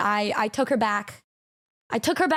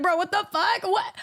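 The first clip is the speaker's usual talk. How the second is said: higher, incredulous "Bro, what the fuck? What?"; mock disbelief; 6 semitones higher than usual. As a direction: replay your own stunned reaction, a bit higher. Retelling his shocked reaction.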